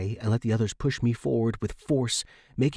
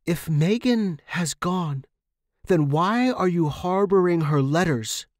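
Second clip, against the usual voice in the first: accusing challenge; 8 semitones higher, 6 dB louder than usual. Acted. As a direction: catch her out with it. Tenant confronts landlady over letters.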